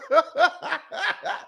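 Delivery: high-pitched burst of laughter; a high, amused giggle. Real, not acted. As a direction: laugh at the absurd story. Host laughs at story.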